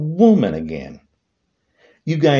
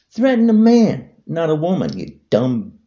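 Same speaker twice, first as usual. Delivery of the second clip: angry rebuke; 3 semitones higher, 3 dB louder than usual. Real, not acted. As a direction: scold him hard.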